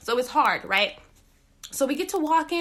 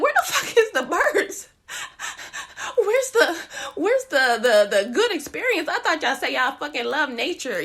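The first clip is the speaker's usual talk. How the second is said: laughing complaint; 3 semitones higher than usual. Retold or imitated. Complaining on the hot hike.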